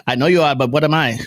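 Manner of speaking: put-on Indian accent; comic impression with an Indian accent. Joking as the Indian dude from the FBI, Indian accent. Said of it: "When I do my Indian accent".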